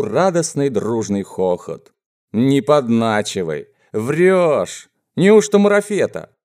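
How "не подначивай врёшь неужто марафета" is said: climbing to a high, loud question; excited disbelief. Acted. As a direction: react with mounting eager incredulity. Gang excitedly doubts the offered drug. (возбуждённое недоверие, всё выше и громче)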